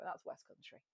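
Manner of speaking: a quick West Country accent, softly done. Shown as a demonstration. Demoing accents for the Americans, a West Country accent. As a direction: toss off a West Country burr. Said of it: "I go".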